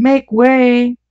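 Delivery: crying out. A narrator's reading. Men warn him of the cab, crying out. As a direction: call a warning high, not full volume. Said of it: "cried the men all about him".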